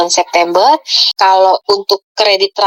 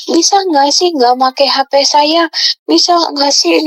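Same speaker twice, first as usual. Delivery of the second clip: higher, drawn-out plaintive mock yell; retold tearful yelling; 6 semitones higher, slower than usual. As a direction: imitate a child's crying protest, slow and raised in pitch. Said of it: "dia nangis teriak". (menirukan anak nangis teriak)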